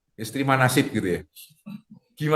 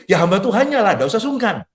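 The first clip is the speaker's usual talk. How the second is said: lightly voiced congregant, pitched higher; speaking for congregation; 5 semitones higher than usual. Pastor answering for his too-polite congregation, lightly acted reply. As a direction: answer on the listeners' behalf, higher. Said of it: "Saya wakili ya".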